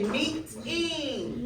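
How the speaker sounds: "meeting" stretched as MEE, then TING; syllables split apart. Shown as a demonstration. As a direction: model "meeting" slowly with a clear t. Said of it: "let's try it again".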